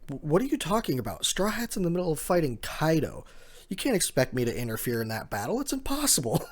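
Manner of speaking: rising, high-pitched protest; alarmed protest. Retold or imitated. Agent protests the order over the snail phone, alarmed. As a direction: push back in panic.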